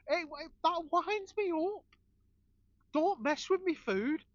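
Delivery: wound up about his food, a touch hammed; flustered rant. Real, not acted. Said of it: "Getting all flustered here".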